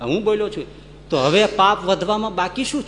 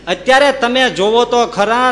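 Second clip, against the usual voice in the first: indignant scolding; 4 semitones higher, 6 dB louder than usual. Acted. Man scolding God.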